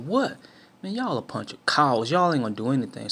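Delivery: loud, jeering challenge at the car; mock taunting shout. Teammate taunts the guys in the car, loud jeering shout.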